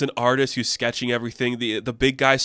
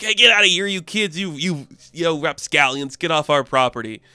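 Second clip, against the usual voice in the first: lightly voiced grumpy old Autobot; mock angry old-timer; 3 semitones higher than usual. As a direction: chase off the kids, half in earnest. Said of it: "like, angry".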